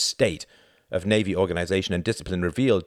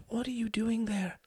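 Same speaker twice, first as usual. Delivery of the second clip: hushed, much higher anxious whisper; urgent whisper; 5 dB quieter than usual. A narrator's reading. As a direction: ask it barely above a breath. Woman whispering on the phone.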